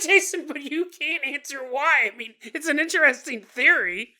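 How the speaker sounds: high mocking voice of a sceptic; doubting listener. Listener mocks the host's theory in a high voice. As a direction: play the scoffing friend who won't buy it. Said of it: "You're like".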